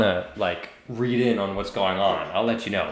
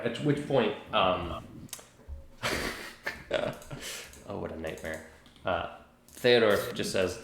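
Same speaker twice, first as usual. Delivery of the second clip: ordinary talk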